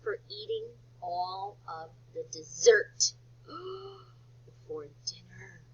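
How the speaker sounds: a lightly voiced kid fretting, slowing and sinking to a whisper; worried kid. Teacher voicing a kid who ate all the dessert, worried. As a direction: play a nervous child afraid of punishment. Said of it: "Like, oh".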